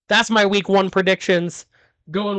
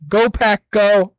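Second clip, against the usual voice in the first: cheer; 3 semitones higher, 4 dB louder, slower than usual. Real, not acted. Cheering for his team.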